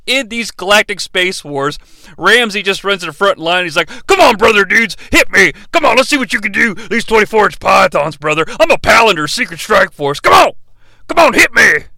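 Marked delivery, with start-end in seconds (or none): 4.1-11.8 brash musclebound hero taunting enemies; mock Hulk Hogan bravado; hammed-up hero. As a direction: bark out the dare to hit you. Shep charging to front line.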